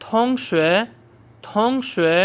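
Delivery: थोंगशुए said as tóngxué, vowel softened; teacher drilling थोंगशुए; silent vowel. Shown as a demonstration. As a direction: model थोंगशुए for the class. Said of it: "class fellow में भी silent हो जाता है".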